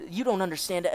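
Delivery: put-on slipped into the officer's German accent; wrong accent. Captive protesting to interrogator, in the wrong German accent. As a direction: mistakenly keep the German accent. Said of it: "I keep using the wrong accent".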